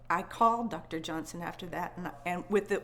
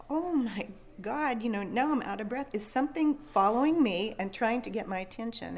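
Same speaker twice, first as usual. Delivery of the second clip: shocked; 2 semitones higher, 4 dB louder than usual. Retold or imitated. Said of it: "and my shock was like".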